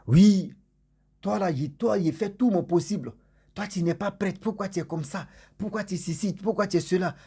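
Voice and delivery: mock scolding rant. Man in her dream reproaching the girl, mock angry scolding. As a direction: nag her like a spurned suitor.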